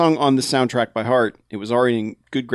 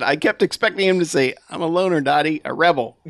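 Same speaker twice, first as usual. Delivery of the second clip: laughing through it; 4 semitones higher than usual. Acted. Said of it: "laughing too hard to do the Pee-wee voice".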